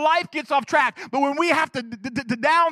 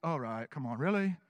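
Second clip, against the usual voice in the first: exasperated; 11 semitones lower, 11 dB quieter than usual. Retold or imitated. Jesus exasperated, eye roll.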